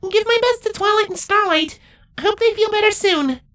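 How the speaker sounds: put-on high, flat deadpan girl voice; unimpressed, eye-rolling young changeling; high-pitched deadpan snark. Ocellus voiced.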